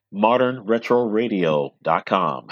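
slow smooth DJ voice; sexy radio voice. Shown as a demonstration. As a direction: purr it like a late-night DJ. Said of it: "in your sexy radio voice".

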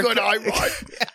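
slow, lightly put-on Australian accent; mock Australian accent. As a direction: drawl it like a fake Australian. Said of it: "Australian accent".

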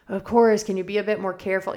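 mother reenacting exasperation at her daughter over spilled muffins; exasperated retort. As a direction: replay the irritated mom, not yelling. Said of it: "the way I reacted".

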